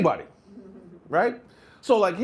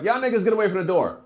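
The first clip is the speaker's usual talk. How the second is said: shouted order; 6 semitones higher than usual. Shown as a demonstration. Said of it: "if I was like".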